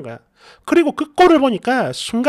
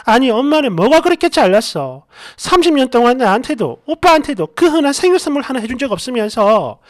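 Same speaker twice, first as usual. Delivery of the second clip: yelling at mom; 3 semitones higher, 5 dB louder than usual. Retold or imitated. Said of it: "소리를 질렀어요".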